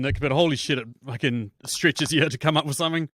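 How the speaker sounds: ordinary talk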